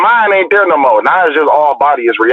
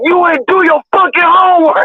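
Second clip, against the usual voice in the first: coach yelling. Retold or imitated. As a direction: bark it like an angry coach on the mat. Coach banging mat, yelling.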